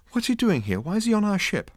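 shaky. A narrator's reading. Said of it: "said Trillian shakily".

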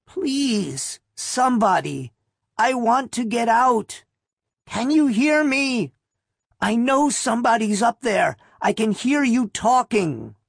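put-on high, feeble old woman calling up from below; ancient woman calling. A narrator's reading. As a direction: call up weakly like an old woman buried alive. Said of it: "the impotent, ancient female voice called".

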